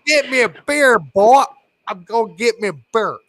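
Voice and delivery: high, loud redneck twang; mock redneck. Sending the boy for beer, hammed-up redneck accent. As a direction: exaggerate a redneck demanding a drink. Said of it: "It's redneck".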